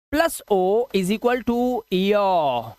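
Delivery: teacher to students noting the rule, slow dictation. Shown as a demonstration. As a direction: rule spelled out slowly, word by word. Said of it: "simple सा rule बना".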